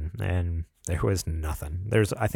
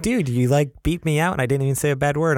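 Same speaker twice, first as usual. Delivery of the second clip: mock whine; 6 semitones higher, 3 dB louder than usual. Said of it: "you were like".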